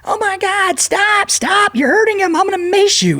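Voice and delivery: high, frantic woman's voice; panicked lady voice. Retold or imitated. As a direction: shriek like a scared older lady. Voicing panicked older woman.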